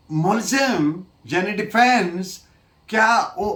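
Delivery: ordinary talk, nothing marked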